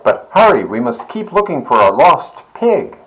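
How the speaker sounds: hurried wife agreeing; farmer's wife voice. A narrator's reading. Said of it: "says the farmer's wife".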